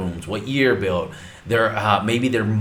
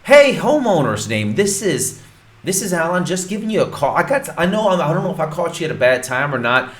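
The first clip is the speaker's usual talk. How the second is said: cheery sales call; 5 semitones higher than usual. Shown as a demonstration. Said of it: "what I want you to say is".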